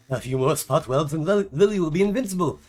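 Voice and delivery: a hint of a giddy mad scientist, speeding up at the end; lightly voiced inventor gloating over his robot. Inventor gloating to his wife about his robot, mildly hammed-up. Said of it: "the mad scientist engineer type".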